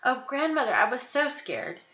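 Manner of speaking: understated tearful relief; sobbing. Acted. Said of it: "sobbed Little Red Riding Hood".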